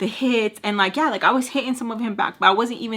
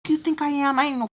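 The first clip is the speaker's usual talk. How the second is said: higher-pitched mad rant; retold fed-up complaint, pitched up; retold anger; 5 semitones higher than usual. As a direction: act out being fed up with his attitude. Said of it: "I was so mad".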